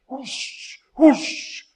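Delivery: whoosh sound. Shown as a demonstration. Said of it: "do it like that".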